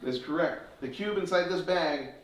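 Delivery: put-on showman patter for children; kids party magician. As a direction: build wonder like a stage magician.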